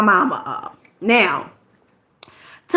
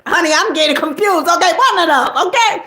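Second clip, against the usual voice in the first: flustered laugh through the words; 7 semitones higher than usual. Real, not acted. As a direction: laugh at her own mix-up. Laughing aside about confusion.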